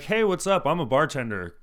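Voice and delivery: loud, high, hammed-up self-introduction; mock bragging greeting. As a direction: imitate a show-off announcing himself. Mocks customers who announce their job.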